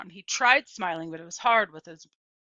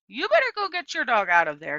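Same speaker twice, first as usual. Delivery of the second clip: urgent warning; 4 semitones higher, 7 dB louder, faster than usual. A narrator's reading. Boy warning her urgently.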